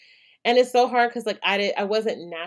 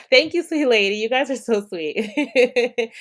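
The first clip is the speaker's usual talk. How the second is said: touched thanks; 4 semitones higher, 8 dB louder, slower than usual. Real, not acted. Thanking viewers for gifts.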